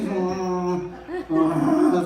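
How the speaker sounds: a wordless "mm" growl; imitated jealous growl. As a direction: mimic yourself seething with a drawn-out "mm". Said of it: "Y yo estaba así".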